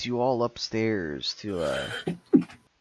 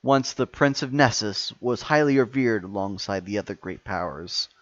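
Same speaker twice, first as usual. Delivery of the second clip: louder, grand villain speech; booming echoing villain monologue; 3 dB louder than usual. Acted.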